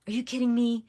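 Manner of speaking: exasperated at losing the spin again; mock angry outburst. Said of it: "I get so angry".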